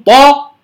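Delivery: "طا" with a d sound mixed into the t; ط tinged with د. Shown as a demonstration. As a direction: wrongly voice the ط of "طا" towards د. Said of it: "فيدخل معها الدال". (نطق "طا" مشمة صوت الدال)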